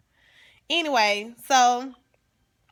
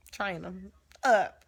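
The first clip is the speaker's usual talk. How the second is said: "Train him up" drawn out slowly like a preacher quoting scripture; slow, drawn-out "Train him up" in a preaching voice; preachy scripture quote; slower than usual. Shown as a demonstration. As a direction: stretch "Train him up" out slow and churchy, like reciting the Bible. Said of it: "That's in the Bible".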